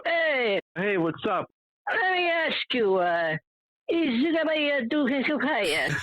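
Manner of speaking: hammed-up Italian pizza man accent; thick Italian accent. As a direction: mimic the pizza man's broken Italian English. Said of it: "he's such a thick accent".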